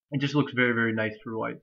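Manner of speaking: stuffy nasal voice from allergies. Real, not acted. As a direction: speak through a blocked nose. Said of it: "If I have a kind of a nasally voice".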